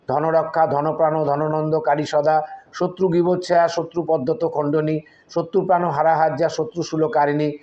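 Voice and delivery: rhythmic Sanskrit verse; steady devotional chant; mantra recitation. Shown as a demonstration. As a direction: recite it like a prayer, evenly.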